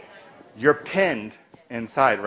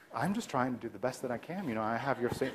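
soft, calming reassurance; speaking softer; 3 semitones lower, 11 dB quieter than usual. Shown as a demonstration. Provider answering an angry patient, softly. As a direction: keep it quiet and reassuring. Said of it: "And then I'll do the same thing".

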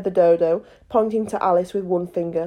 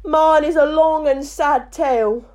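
higher, tearful mouse voice; sad sighing; 6 semitones higher, 3 dB louder than usual. A narrator's reading. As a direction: sigh it out mournfully. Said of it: "said the mouse, sighing".

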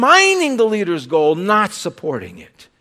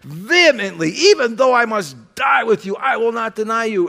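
vehement. Acted. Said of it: "he says vehemently".

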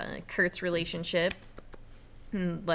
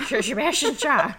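higher, louder, laughing through the name; 7 semitones higher, 7 dB louder than usual. Real, not acted. Host mocking own trouble with the villain's name, laughing. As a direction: crack up while slurring the tricky name.

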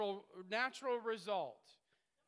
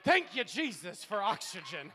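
louder, exuberant thanks; 8 dB louder than usual. Retold or imitated. Preacher thanking Jesus each morning, loud and exuberant. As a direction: belt out the thank you. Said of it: "I wake up in the morning and I go".

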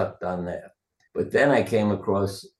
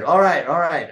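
placating; 7 semitones higher, 7 dB louder than usual. Retold or imitated. Answering the animals, placating.

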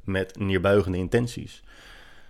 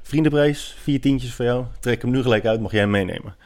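playful salesman pitch; 6 semitones higher than usual. Retold or imitated. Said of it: "Ik zeg".

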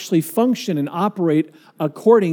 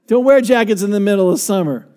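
laughing. Real, not acted.

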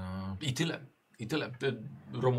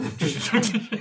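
building to a yelled shut up; louder and higher each time; rising shout; 10 semitones higher, 9 dB louder than usual. Real, not acted. Telling player to shut up.

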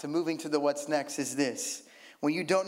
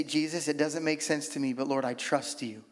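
trusting prayer; 3 semitones lower than usual. Retold or imitated. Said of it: "you say".

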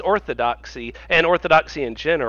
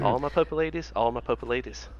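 mock Italian with added vowels; bad Italian accent; 4 semitones lower, 4 dB quieter than usual. Warming up to voice the pope's quotes, bad Italian accent. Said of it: "in my bad Italian accent".

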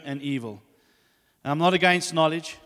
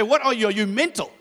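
high, loud indignant outburst; mock freaking out; 6 semitones higher, 4 dB louder than usual. King confronting Abraham over his wife, freaking out. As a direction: act out an alarmed, outraged king. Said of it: "He's freaking out".

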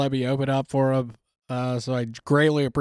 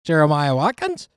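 put-on Kiwi accent with rising ending; mock New Zealand upswing. Shown as a demonstration. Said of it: "you have to do a question mark".

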